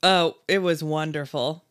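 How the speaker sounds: dry sarcastic reply. Real, not acted. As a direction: say it sarcastically, without meaning it. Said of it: "That's so sarcastic".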